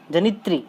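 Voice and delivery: "जनित्री" as ja-ni-tree; careful "tri" ending. Shown as a demonstration. Teacher showing students the right sound, "जनित्री" ending in a clear tri. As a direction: finish "जनित्री" on a clear ee after tr. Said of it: "री का उच्चारण आपको री की तरह".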